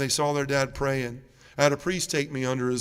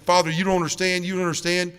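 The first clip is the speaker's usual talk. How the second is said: raised pitch, insistent retold plea; pleading protest; 4 semitones higher, 3 dB louder than usual. Penitent tries to make the priest understand, pleading.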